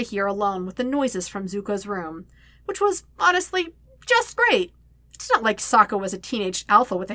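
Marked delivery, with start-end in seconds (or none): 2.7-4.7 high, sarcastic sing-song; dripping with mock cheer; sarcastic narrator. A narrator's reading. Sarcastic narration of awkward situation.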